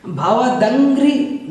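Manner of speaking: भवदंघ्रि spelled out slowly, syllable by syllable; teacher's slow model of भवदंघ्रि; slow pronunciation. Shown as a demonstration. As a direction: stretch भवदंघ्रि with a clear nasal before घ्रि. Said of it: "इसको बोलना है".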